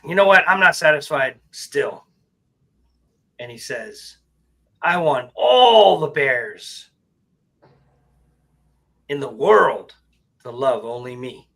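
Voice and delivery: loud, slow, greedy bear demanding. Acted. Bear telling the genie he wants every bear in the world. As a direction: boom out the bear's final wish slowly. Bear's third wish.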